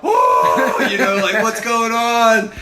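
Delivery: high, alarmed gasp of surprise; startled whoa. Retold or imitated. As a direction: sound caught off guard as the sled flies. Girl lined up for sled jump.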